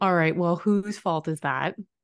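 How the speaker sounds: ordinary delivery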